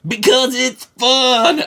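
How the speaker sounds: slow, high, laughing redneck drawl; dumb redneck accent. Retold or imitated. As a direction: laugh through a mock Southern hick voice. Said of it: "he had that dumb accent".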